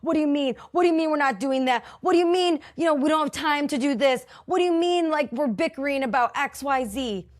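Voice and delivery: high, loud, rapid-fire disbelief; exasperated protest. Retold or imitated. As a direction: fire off the objections like you can't let it go. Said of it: "I'm just like".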